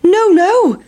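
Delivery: very high squeaky no no; pancake refusing. A narrator's reading. Pancake refusing the boys, high squeak. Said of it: "said the big pancake".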